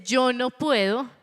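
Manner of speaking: anxious outcry. Acted. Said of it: "La voz de Moisés dice".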